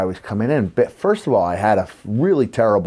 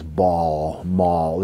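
lower-pitched New York vowels on ball, mall; New York accent; 4 semitones lower than usual. Shown as a demonstration. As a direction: show off the telltale New York vowel in each word. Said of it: "I had the telltale sounds".

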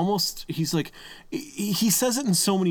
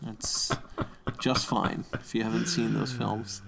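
fading, mock-patient reassurance getting softer; mock tolerant; 3 semitones lower, 5 dB quieter than usual. Cohost voicing his own fake acceptance, mock-patient and fading. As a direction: say it's fine while clearly not fine. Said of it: "that was me going".

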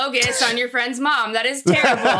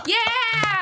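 excited cheer; 10 semitones higher than usual. Real, not acted. Cheering for Brandon.

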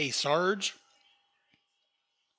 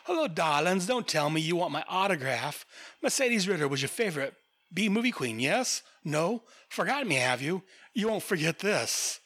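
lightly voiced old film diva; a hint of a B movie queen purring; breathy vintage purr; 3 semitones higher than usual. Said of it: "She's like".

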